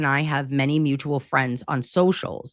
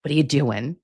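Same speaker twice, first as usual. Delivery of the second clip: Nana impression; 3 semitones lower, faster than usual. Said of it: "That would be her too, to be like".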